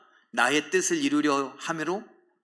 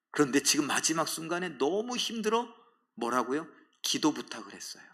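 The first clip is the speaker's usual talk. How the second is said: ordinary talk, nothing marked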